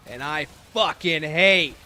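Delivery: a shaky try at the Oz drawl; clumsy mock villain rant; Oz impression. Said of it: "I can't do it very well".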